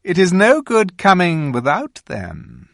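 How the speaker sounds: high, commanding queen voice; a regal witch giving orders; queen instructing the boy Edmund, commanding. A narrator's reading.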